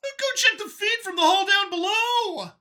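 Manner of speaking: high, loud alien command; growled order. A narrator's reading. Lead Xeno ordering subordinate, loud growled command. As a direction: bark it at the subordinate. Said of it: "growled back".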